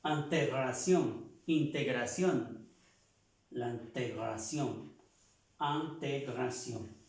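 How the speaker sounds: integración said slowly, in sounding like an; slow careful integración; model pronunciation. Shown as a demonstration. Teacher drills integración for the class. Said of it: "Pronunciamos integrer".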